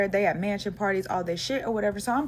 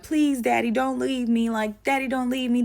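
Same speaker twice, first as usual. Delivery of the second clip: higher-pitched mock pleading; imitated begging; 5 semitones higher, slower than usual. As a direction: plead after him as a retold impression. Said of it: "now she's fucking begging".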